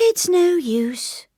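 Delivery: high, slow weary sigh. A narrator's reading. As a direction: let it out like giving up. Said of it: "she sighed".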